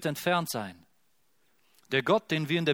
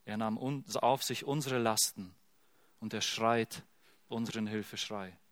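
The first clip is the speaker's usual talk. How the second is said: softer, intimate and sincere; tender preaching; 3 semitones lower, 6 dB quieter than usual. Real, not acted. Preacher comforts listeners softly, tender and sincere. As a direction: lean in close and comfort.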